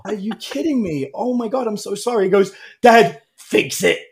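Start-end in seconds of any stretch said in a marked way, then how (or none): 0.0-2.3 sympathetic dad. Retold or imitated. Dad sympathising with upset son. 2.8-4.0 loud, slow mock wail; high, drawn-out whiny plea; pleading child. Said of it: "he's crying".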